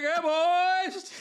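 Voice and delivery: high-pitched hammed-up call to buddies; imitated hollered hello; mock hearty greeting. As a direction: hail the gang like a local celebrity. Mimicking his greeting to friends.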